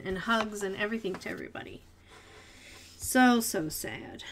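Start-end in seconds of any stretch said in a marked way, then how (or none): 3.0-4.2 slow sad. Real, not acted. Grieving slowly.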